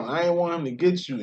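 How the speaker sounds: usual speaking voice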